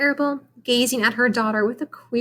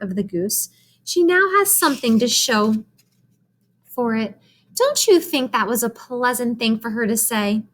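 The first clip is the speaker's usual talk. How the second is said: put-on eager girl, pitched up; lightly voiced Fern, higher; 4 semitones higher than usual. Fern proudly retells Charlotte's barn speech, higher girl voice. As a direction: tell it breathlessly like an excited girl.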